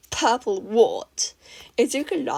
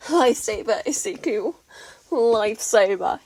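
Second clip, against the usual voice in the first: louder, emphatic thanks; grateful gush; 5 dB louder than usual. A narrator's reading. Mei thanking Izuku, gushing.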